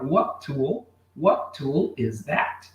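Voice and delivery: "What tool" said with one T, second take slow; linked T. Shown as a demonstration. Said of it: "nós vamos juntar e fazer só um som de T".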